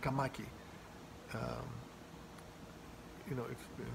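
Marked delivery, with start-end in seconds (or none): 0.0-0.4 Kamaki, stress on ma; Kamaki, hit the ma; stress second syllable. Shown as a demonstration. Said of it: "The accent is the second syllable".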